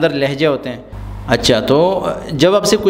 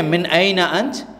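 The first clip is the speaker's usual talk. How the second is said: slow teaching repeat; 3 semitones higher, much slower than usual. Shown as a demonstration. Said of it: "teacher repeating phrase slowly".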